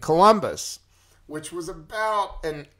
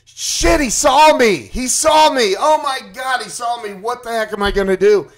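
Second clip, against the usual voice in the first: high, loud panicked yelling; acted freak-out; 7 semitones higher, 7 dB louder than usual. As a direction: re-enact frantic panic, pitch way up. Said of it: "I'm freaking out".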